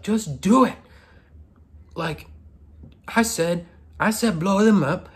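high-pitched, hammed-up French accent; bossy caricature with a thick French accent; stereotypical French accent. Crewmate ordering Drummer to blow them up, French accent. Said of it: "stereotypical French".

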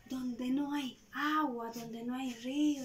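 teasing, mocking question; lightly voiced jeering neighbors. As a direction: taunt Noah. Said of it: "se burlaban".

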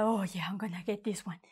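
whispered happy aside. Shown as a demonstration. Happy shopper whispering to herself. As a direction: hush it like a secret delight. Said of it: "you're super happy".

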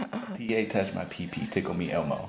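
very low, soft recital; deadpan challenge read. Real, not acted. Giving the partner a phrase to guess, hushed deadpan. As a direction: keep it low, quiet and even.

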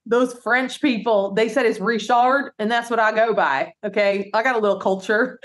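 lightly voiced earnest braggart; Richard impression. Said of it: "He's like".

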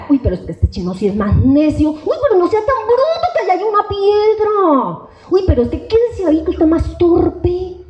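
high, exasperated mother's scolding; scolding mom. Retold or imitated. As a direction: nag the clumsy kid like an exasperated mom. Madre regañando al niño torpe. (madre regañona en tono agudo)

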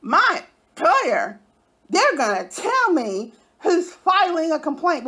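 high, whiny crying mock of her; sob-voiced imitation mocking a rival; mocking her threats. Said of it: "And listen to her threats".

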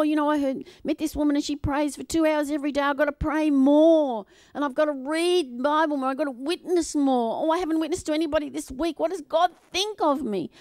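mock a guilt-ridden christian fretting; lightly hammed anxious striver; anxious believer. Preacher acts anxious legalistic believer.

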